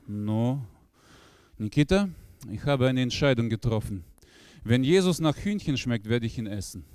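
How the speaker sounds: put-on low, solemn Russian accent; Russian-accented Viktor. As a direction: announce a grave decision. Viktor mit Akzent. (tiefer russischer Akzent, feierlich)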